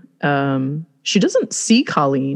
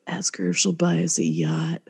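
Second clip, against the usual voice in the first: sleepy mumble; 6 dB quieter than usual. Retold or imitated. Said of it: "all sleepy-eyed, and he just goes".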